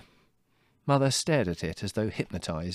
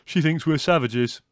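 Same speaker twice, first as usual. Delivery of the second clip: loud, higher-pitched son; chuckling, amused; 6 semitones higher, 8 dB louder than usual. A narrator's reading. Son telling mother what the visitor thinks, amused. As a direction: say it with amused relish, loudly.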